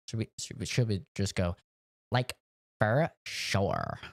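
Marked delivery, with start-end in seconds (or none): 2.1-4.0 put-on Valley Girl "for sure". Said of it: "Drives me crazy".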